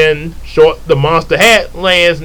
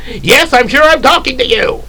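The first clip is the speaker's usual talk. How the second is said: exasperated; 8 semitones higher than usual. Acted. Exasperated repeat.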